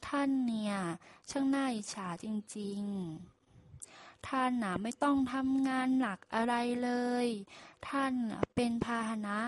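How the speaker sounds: lightly voiced ox, mildly envious praise; a hint of a fawning ox, gently jealous; envious flattery. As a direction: ox flattering the donkey with a touch of envy. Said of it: "อิจฉาเยินยอว่าประมาณว่า".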